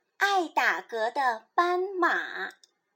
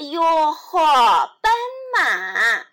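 calling out; 6 dB louder, much slower than usual. Acted. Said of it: "猪小妹叫道".

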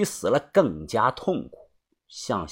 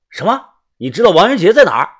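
surprised; 6 semitones higher, 7 dB louder, faster than usual. Acted. Narrator shocked by claim.

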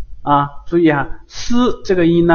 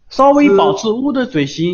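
coaching voice; 6 semitones higher than usual. Shown as a demonstration. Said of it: "coaching student, higher".

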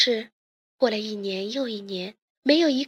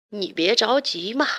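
lightly voiced comforting father; a touch of soothing; reassuring. A narrator's reading. Inventor father comforts his unhappy daughter, mildly reassuring. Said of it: "连忙安慰女儿说".

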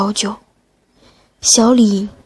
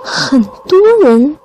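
sly doctor savouring a dark secret; creepy doctor voice; 4 semitones higher than usual. Acted. Creepy doctor reveals the dead.

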